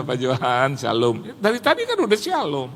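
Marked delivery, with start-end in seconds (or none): 0.0-1.2 low mock giggle into a greeting; imitated sheepish giggling. Pastor sitting silent instead of fetching coffee, in a mock giggly greeting. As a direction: giggle foolishly before the greeting. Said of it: "dia cengengesan lagi".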